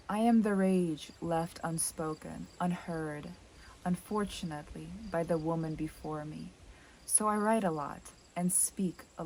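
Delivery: measured poetry reading, each phrase falling away; understated, reflective verse reading; poem reading. Acted. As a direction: read the poem gently in short, weighed phrases. Reads a poem aloud.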